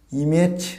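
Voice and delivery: ইমেজ as "ee-mech", open second vowel; common mispronunciation. Shown as a demonstration. Teacher showing what learners say, ইমেজ as "ee-mej". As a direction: say ইমেজ with a full e. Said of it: "এটা not ইমেজ".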